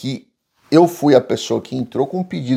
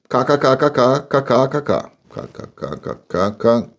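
spelled-out laugh. Retold or imitated. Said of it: "falar que é gringo".

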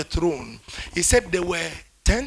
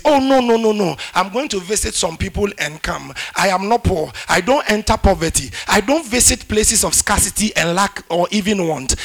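loud confident refusal; 2 semitones higher, 5 dB louder than usual. Pretend. Acting a confident believer's reply.

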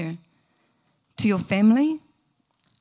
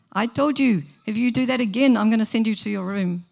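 exasperated parent; 2 semitones higher, 4 dB louder than usual. Retold or imitated. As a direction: warn the child a second time. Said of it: "Next minute".

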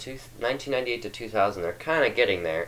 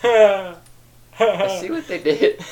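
louder, higher amused repeat; excited realization; 9 semitones higher, 6 dB louder, slower than usual. Real, not acted. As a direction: say it again with glee.

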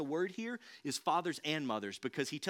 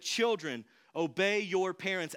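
put-on a bit louder and slower, speaking straight to the kids; direct address to children; 4 semitones higher, 5 dB louder, slower than usual. Shown as a demonstration. Pastor speaks straight to the kids in the room, slower and louder. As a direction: say it as if the children sit right in front of you. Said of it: "as if I was reading this and I said".

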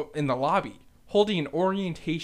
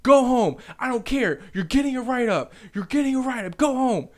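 raised, high retold telling-off; screaming back; 8 semitones higher, 5 dB louder than usual. Kitchen manager sending a worker home, angry raised voice. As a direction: imitate an angry boss sending someone home. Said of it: "they're screaming at each other".

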